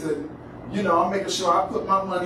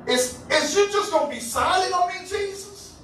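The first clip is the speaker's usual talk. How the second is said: high, acted-out pleading; desperate plea; 5 semitones higher than usual. Woman confronting a silent Jesus, desperate. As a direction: plead upward, pitch raised at first. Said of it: "I'm desperately in need of help".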